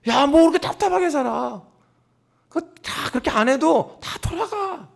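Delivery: high-pitched, exasperated mock scolding; mocking worldly critics. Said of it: "믿음의 사람들이 이런 소리를 많이 들어요".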